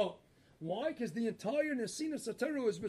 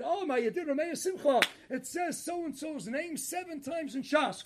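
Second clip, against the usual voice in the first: excited greeting; 4 semitones higher, 4 dB louder than usual. Retold or imitated. Rogatchover greets Rameir Simcha.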